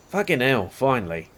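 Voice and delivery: put-on Australian accent. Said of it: "I forgot I'm talking like an Australian person".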